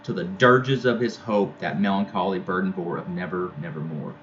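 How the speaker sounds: measured poetry recital; poem reading. Acted. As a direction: read the verse aloud for the class. Teacher reads poem aloud.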